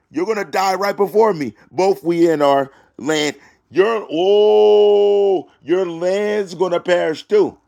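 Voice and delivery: high preacher's warning with a drawn-out wail; emphatic sermon outburst; impassioned preaching. Acted. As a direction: preach doom, stretching the key words. Preaches doom between verses.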